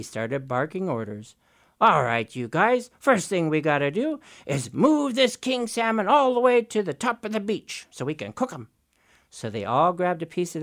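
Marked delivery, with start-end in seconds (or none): 1.8-8.7 bossy Raven. Acted. Raven barking orders.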